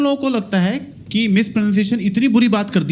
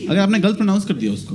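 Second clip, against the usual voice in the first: normal talking voice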